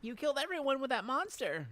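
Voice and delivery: high, loud accusing shout; angry accusation. Acted. Dan shouts the blame at Faye again, angry.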